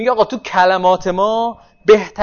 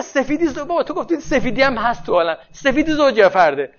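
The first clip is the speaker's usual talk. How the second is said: put-on a kid asking, pitched higher at first; lightly voiced child asking whether whiteness is even or odd; child's cheeky question; 5 semitones higher than usual. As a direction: play the clever child catching the teacher out. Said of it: "اگه برگرده بگه".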